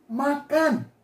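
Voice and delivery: "Makan" pitched high and drawn out; high, long "Makan" as a welcome; inviting intonation. Shown as a demonstration. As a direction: offer food with a lifted, sung-out tone. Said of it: "intonasi kedua".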